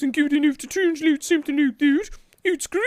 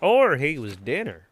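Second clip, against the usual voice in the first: very low dry joke; deep voice; 13 semitones lower than usual. Pretend. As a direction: drop the voice way down.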